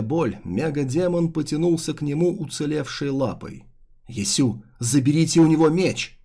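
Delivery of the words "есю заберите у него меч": urgent, loud call to a comrade; anxious shout. Acted. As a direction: shout the order in alarm. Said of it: "взволнованно крикнул Нели".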